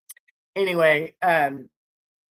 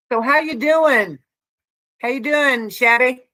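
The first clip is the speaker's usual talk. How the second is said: yelling; 4 semitones higher than usual. Real, not acted. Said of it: "I don't know why I'm yelling".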